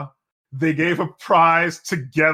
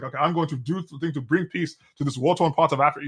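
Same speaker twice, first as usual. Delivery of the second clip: put-on African accent; 3 dB quieter than usual. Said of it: "You like my accent".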